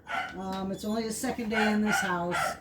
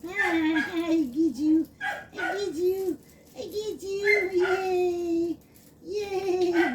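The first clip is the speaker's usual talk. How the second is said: excited doggy-talk; 8 semitones higher, slower than usual. Real, not acted. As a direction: cheer and coax the puppy. Playing with excited puppy.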